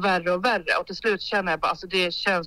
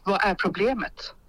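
snooty doctor; slower than usual. Retold or imitated. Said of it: "hon säger jättedrygt".

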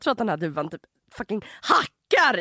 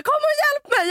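panicked cry for help; 14 semitones higher, 3 dB louder than usual. Retold or imitated. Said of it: "Han bara".

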